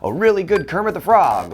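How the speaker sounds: Kermit impression. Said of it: "I could do a".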